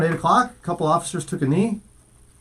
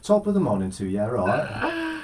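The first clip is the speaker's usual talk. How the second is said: put-on Irish-ish accent; 5 dB quieter than usual. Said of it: "that was Irish kinda".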